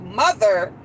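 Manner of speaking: put-on a low, earnest "Mother" from a teen son; serious. Teenage son addressing his mom about his interest, serious and low. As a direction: drop the voice for a grave "Mother". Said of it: "when they call me mother when they serious".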